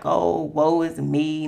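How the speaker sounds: slow, drawn-out whiny moan; mock woe is me. Recalling her pity party, slow mock moan. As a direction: act out playing the victim. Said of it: "not acting like a victim".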